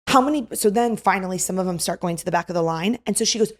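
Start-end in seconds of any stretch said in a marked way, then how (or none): 0.1-0.5 put-on high, loud questioning girl; high mock question. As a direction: pipe up asking how many. Girl counting people.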